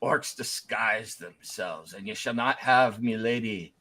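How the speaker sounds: put-on suspicious old knight. Old ghost knight to the party, slow wary warning. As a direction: mutter the warning slowly, distrustful.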